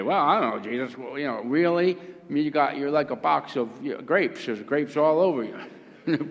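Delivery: lightly snarky, incredulous protest; mock the absurd question a little, as a cheeky disciple; snarky Peter. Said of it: "Peter had to get snarky".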